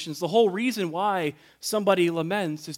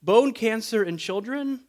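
raised, indignant retelling of an angry atheist; indignant anger; 3 semitones higher than usual. Retold or imitated. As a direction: hurl the accusation at God with indignation. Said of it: "tone of indignation and anger".

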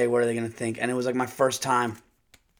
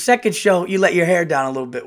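imitating manager; 4 semitones higher, 6 dB louder, faster than usual. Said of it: "he goes".

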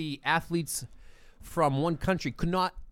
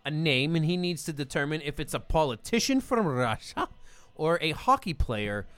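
fake Russian accent. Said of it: "What accent is this, Mike?".

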